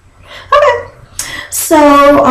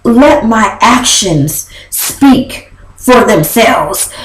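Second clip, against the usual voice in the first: fancy smancy answer; 3 semitones lower, slower than usual. Retold or imitated. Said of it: "his fancy smancy answers".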